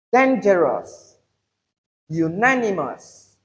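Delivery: DANgerous, uNANimous, each falling after the stress; "dangerous" and "unanimous" drawn out on DAN and NAN; stress third-from-last syllable. Shown as a demonstration. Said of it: "are stressed on the third syllable from the end".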